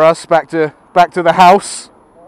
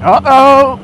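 mock alarm; 14 semitones higher, 3 dB louder, much slower than usual. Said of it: "I'm like".

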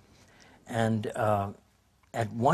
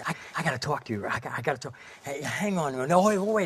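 retold frantic stranger; 4 semitones higher than usual. Frantic man on payphone, retold.

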